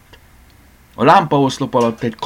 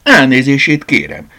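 higher, louder cry of apology; cried out; 8 semitones higher, 9 dB louder than usual. Acted. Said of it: "kiáltotta Franci néni". (felkiáltva, hangosabban)

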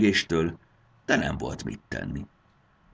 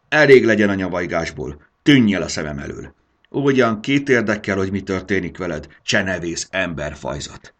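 much louder, harsh dismissal; a fuming dragon mother shooing off a human child; grumbling rage; 4 semitones higher, 9 dB louder than usual. Acted. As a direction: drive the girl away in anger. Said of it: "bökött dohogva".

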